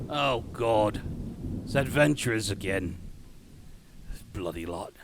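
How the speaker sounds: grumbling Cockney gate guard; lightly voiced weary Cockney sentry; shitty Cockney accent. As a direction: grumble to yourself in bad Cockney. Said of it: "my shitty Cockney accent".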